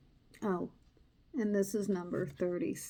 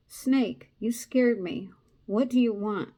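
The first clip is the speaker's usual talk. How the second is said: louder, startled lizard; startled cry; 2 semitones higher, 8 dB louder than usual. Acted. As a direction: blurt it out, a bit startled. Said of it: "Lizard cried".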